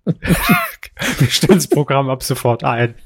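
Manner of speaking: slow, formal announcer voice; mock official announcement.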